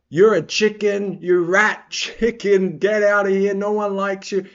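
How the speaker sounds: drawn-out put-on heckling; Mario Batista. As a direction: jeer slowly at a rival. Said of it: "And Mario just goes".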